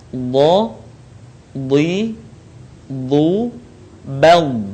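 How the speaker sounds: thick Bo, Bi, Bu, with the L of Bal drawn out; prolonged letter sound. Shown as a demonstration. Teacher models the letter for learners, prolonged ending on Bal. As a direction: sound out Bo, Bi, Bu, then hold the end of Bal. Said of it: "suara kita harus memanjang".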